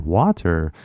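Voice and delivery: WATER with an audible T; hard-T WATER. Retold or imitated. Learner notices their own mistake, WATER with a hard T. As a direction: pronounce the T in WATER. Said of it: "like I said".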